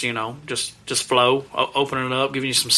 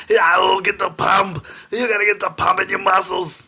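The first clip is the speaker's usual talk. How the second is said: bodybuilder voice; 6 semitones higher than usual. Retold or imitated. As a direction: pump it up like a gym bro. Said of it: "if you want me to say that".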